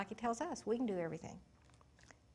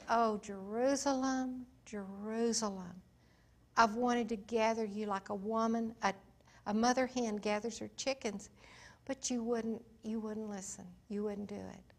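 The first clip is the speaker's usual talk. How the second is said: grieving lament. Acted. Preacher voicing Jesus grieving Jerusalem.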